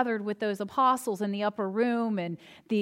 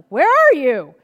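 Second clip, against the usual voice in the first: calling out; 11 dB louder, slower than usual. Retold or imitated. Calling down the hallway.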